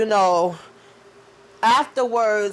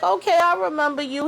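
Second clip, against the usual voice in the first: lightly put-on voice, much higher; hammed-up polite recognition; mock manager voice; 8 semitones higher than usual. The speaker greets Shauna, high mock-polite voice.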